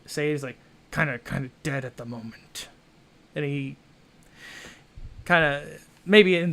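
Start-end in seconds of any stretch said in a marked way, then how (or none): 0.9-2.7 hesitant. Acted. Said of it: "pauses a little bit as if he doesn't kinda wanna say".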